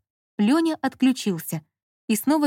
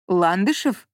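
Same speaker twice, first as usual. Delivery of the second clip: mildly surprised rising question; slower than usual. A narrator's reading. Director querying the caller's husband's name, surprised. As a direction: echo the name in some surprise. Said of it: "удивлённо переспросил Лолу собеседник".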